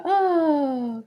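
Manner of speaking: high, drawn-out mock-mystical coo; mystical magical lady. Mocking ladies who lead these conversations, airily mystical. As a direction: float it up high and let it glide down. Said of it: "mystical, magical ladies that are always in charge".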